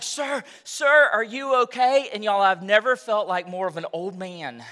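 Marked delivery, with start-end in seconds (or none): 0.0-2.1 mild mock worried lady, a bit higher; lightly voiced worried lady; imitating the kind lady at the pump; concerned lady. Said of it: "she's like".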